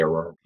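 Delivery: Aurora said with both r sounds as w, like Awowa; says w for r. Real, not acted. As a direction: Aurora with a w in place of each r. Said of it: "I can't say my R".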